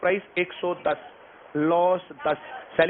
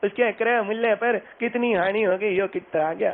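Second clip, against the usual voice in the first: slow, laboured word-by-word reading; mock a plodding student reading out the question; wrong way of reading; slower than usual. Shown as a demonstration. Teacher showing students how not to read, slow plodding read-out. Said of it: "इसको ऐसे नहीं पढ़ना".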